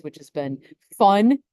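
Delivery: dry sarcasm, drawing out the last word; sarcastic. Real, not acted. Co-host summing up the last couple days, sarcastic. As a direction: say it as if it was anything but fun. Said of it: "say that sarcastically".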